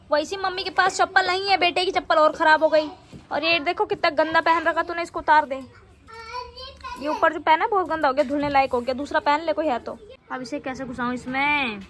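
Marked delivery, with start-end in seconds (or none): 0.1-10.0 higher, louder nagging at her son; scolding. Real, not acted. Mother scolding her son over dirty shoes and shirt. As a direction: scold him about his dirty clothes.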